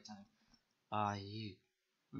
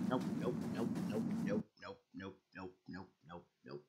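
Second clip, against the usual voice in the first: nope fading to near silence; panicked nopes trailing off quietly; being chased; 3 semitones lower, 4 dB quieter than usual. Real, not acted. Fleeing, fading away.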